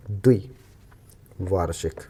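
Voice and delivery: द्विवार्षिक drawn out syllable by syllable; slow spelled out. Shown as a demonstration. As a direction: dictate द्विवार्षिक very slowly. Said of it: "this is the correct". (द्विवार्षिक बहुत धीरे-धीरे)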